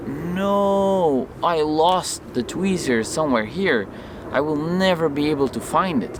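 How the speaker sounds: replayed "oh no" despair; acted dismay. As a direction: lament the loss, stretching the "no". Acting out despair at losing tweezer.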